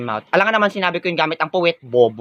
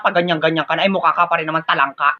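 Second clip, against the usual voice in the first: ordinary talk, nothing marked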